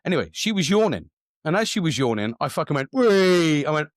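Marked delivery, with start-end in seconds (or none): 2.9-3.6 high, loud "wee"; gleeful prankster's squeal; playful whoop. Retold or imitated. Re-enacting his playful prank.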